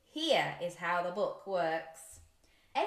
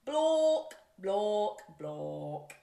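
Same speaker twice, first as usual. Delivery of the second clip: loud Block; 2 semitones lower, much slower than usual. Shown as a demonstration. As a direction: shout Block to the kids. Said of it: "Can you say that?".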